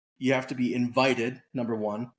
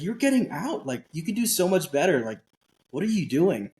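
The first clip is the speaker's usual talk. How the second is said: mock-exasperated wife, pitched higher at the start; a hint of a scolding wife, retold lightly; imitating furious wife; 5 semitones higher than usual. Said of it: "my wife was furious".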